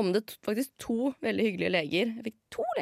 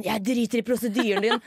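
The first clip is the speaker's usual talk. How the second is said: louder, defiant retold outburst; 3 semitones higher, 6 dB louder than usual. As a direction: snap back at the nurse, louder. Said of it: "Og jeg er sånn".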